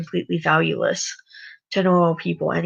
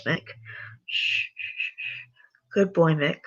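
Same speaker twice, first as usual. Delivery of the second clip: softer, hushed and falsely gentle; creepy soothing captor; 3 dB quieter than usual. Acted. Harvey quietly shushing tied-up Mick before hurting him, hushed and sinister. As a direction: shush him like a menacing caregiver.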